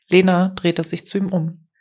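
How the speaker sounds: usual speaking voice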